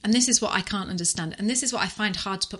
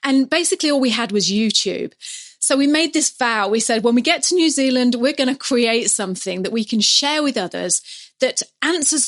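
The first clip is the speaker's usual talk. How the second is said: promo read; 4 dB louder than usual. Acted. Upbeat promo read over music.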